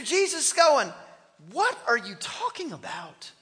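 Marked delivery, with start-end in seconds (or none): 1.5-3.3 softer, dropping back after the shouting; mild bafflement at the bluster; unimpressed. Acted. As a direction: play it calmly dismissive. Jesus unimpressed by devil's yelling.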